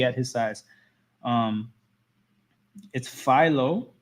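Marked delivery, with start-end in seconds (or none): 2.9-3.9 Philo as FY-loh, long i; corrected pronunciation. Shown as a demonstration. Streamer relaying a chatter's correction, Philo as FY-loh. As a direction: slowly say Philo to rhyme with silo. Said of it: "how to pronounce the name".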